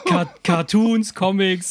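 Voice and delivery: stretched slow, laughing through the word. Real, not acted. Listing Netflix genres while still laughing, slow and amused. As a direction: giggle your way through Cartoons.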